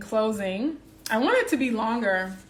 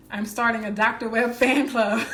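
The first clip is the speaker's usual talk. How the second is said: laughing delight; 3 semitones higher, 6 dB louder than usual. Real, not acted. Delighted by a viewer's comment.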